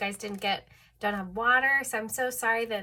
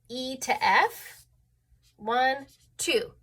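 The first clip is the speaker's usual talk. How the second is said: slow counting; slower than usual. Shown as a demonstration. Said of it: "we actually call that a second".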